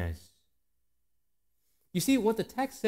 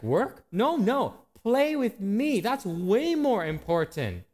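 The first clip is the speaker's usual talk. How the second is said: put-on a child's voice; 5 semitones higher, slower than usual. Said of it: "It's like".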